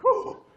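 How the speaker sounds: high, loud exhale of relief; big exaggerated "phew"; relieved whew. Relief after a narrow escape.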